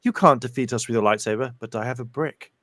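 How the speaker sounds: mock witch boast. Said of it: "I just imagine someone going".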